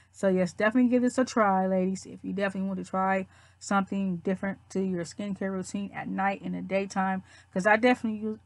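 talking with a mouthful of toothpaste; while brushing teeth. Real, not acted. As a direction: speak around the toothbrush, foamy mouth. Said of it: "oh, sorry, let me spit".

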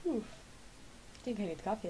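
speaking through a yawn. Real, not acted. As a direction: yawn while saying it. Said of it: "if you didn't understood my yawn".

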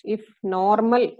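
"normal" drawn out slowly for emphasis; stress on "normal". Real, not acted. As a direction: lean on the word "normal", stretching it. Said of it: "I stress the word normal".

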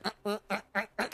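imitated held-in laughing noises; choked little bursts, trying not to laugh; stifled laughter. Son showing himself holding in laughter, stifled. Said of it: "just trying so hard and not".

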